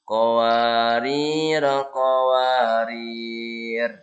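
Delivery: "qawarir" ending on a dead r, slow; stopping form. Shown as a demonstration. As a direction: stop on "qawarir". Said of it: "berhenti di sini".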